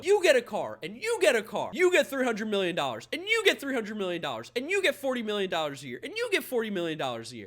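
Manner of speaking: mock Oprah announcing each gift; lightly voiced talk-show host handing out prizes; Oprah gift giveaway. Fan mocking the owner's spending, like Oprah. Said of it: "like Oprah Winfrey giving out gifts".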